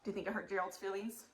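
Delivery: ordinary delivery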